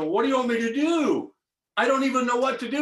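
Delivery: high, pleading retold protest; acted helpless plea. Acted plea to God in story.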